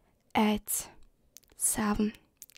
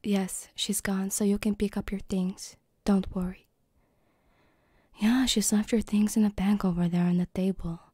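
lightly voiced polite mom; a hint of a reassuring mother; 3 dB louder than usual. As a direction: play a mom, only slightly put on. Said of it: "I'm trying to do my mom voice now".

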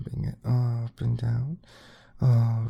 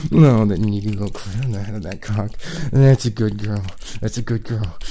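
louder, breathless and urgent; aroused; 6 dB louder than usual. Acted. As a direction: push harder, rising arousal. Peak arousal, loud.

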